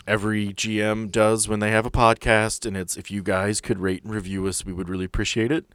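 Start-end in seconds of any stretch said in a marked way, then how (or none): none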